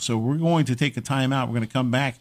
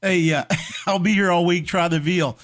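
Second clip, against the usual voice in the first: brash vaudeville comic; 5 semitones higher than usual. Pretend. Repeats comic catchphrase, laughing.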